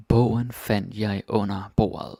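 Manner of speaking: "Bogen fandt jeg under bordet" repeated slowly, "Bogen" leaned on. Shown as a demonstration. Teacher repeating the example slowly for students, "Bogen" stressed. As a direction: say it again slowly for the learners, "Bogen" first and stressed. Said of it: "Some more examples of that".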